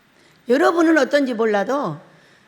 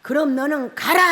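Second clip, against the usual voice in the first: Jesus. Retold or imitated. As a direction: let the last word ring out majestically. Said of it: "멋있는 예수님의 음성이 들렸어요". (길게 울려 퍼지는 음성 흉내)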